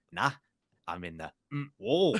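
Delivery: squeals the last word into a laugh; laughing imitation of driver. Cohost retelling the crash radio, laughing. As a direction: driver quote breaking into laughter. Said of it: "Lance Stroll goes".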